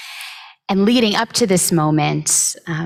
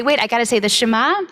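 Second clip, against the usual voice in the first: quick, higher mocking take on Jacob; mock pious excuse; 5 semitones higher, much faster than usual. Teacher mocking Jacob pausing for prayer at the reunion, light mock voice.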